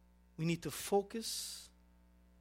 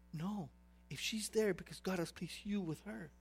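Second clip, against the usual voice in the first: retold pastor's reply; 8 dB quieter than usual. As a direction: answer the plea softly and firmly, as retold. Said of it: "I called my pastor".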